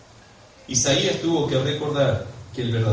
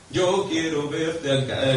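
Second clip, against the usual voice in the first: imitating a worship song; much slower than usual. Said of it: "¿Escuchás esa canción?".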